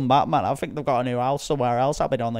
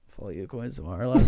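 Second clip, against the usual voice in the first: dazed stoner; 2 semitones lower, faster than usual. Retold or imitated. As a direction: lazily mumble like a stoner. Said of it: "he'll just be rolling the spliff going".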